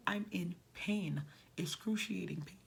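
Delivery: half-shouted protest, squeezed out in pain; retold scream. Pregnant woman yelling at EMT to not sit, mock yell. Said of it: "I started screaming".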